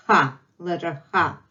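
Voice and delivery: "ha" with a rough back-of-mouth h; hard Russian h. Shown as a demonstration. Teacher names the letter for learners, hard throaty "ha". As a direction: say "ha" with a scraped, throaty h. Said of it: "It's much harder to pronounce".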